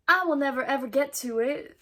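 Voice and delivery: a light southern twang, laughing; southern accent. Acted. Vlogger joking she'll never get to the kit, light southern accent. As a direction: slip into a playful southern accent. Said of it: "I dipped into a southern accent".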